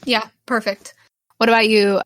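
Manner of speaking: ordinary talk, nothing marked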